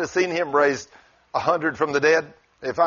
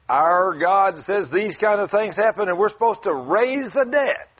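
rising preacher's declaration, higher at the end; preaching; 4 semitones higher than usual. Retold or imitated. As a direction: proclaim it to the congregation, building in pitch. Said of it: "And so he preached".

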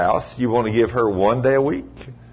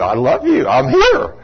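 eager devotion; 4 dB louder than usual. Acted. Acts out morning greeting to God.

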